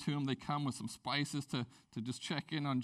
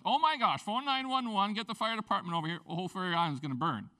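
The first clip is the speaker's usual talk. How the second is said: panicked; 4 semitones higher, 5 dB louder than usual. Pretend. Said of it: "You're like".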